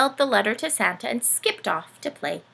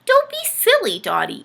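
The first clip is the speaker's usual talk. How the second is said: jumps in much higher and louder; interrupting uncle; 13 semitones higher, 7 dB louder than usual. Acted. Uncle interrupting Dorothy, high and loud. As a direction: cut her off with a hearty laugh in the voice. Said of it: "interrupted Uncle Benny".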